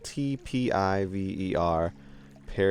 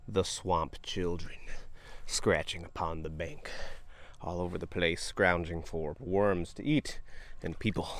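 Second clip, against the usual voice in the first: spooky storyteller; 3 semitones lower, 5 dB quieter than usual. Pretend. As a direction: tell it like a ghost story. Spooky joke about swamp children.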